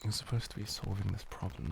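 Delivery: normal talking voice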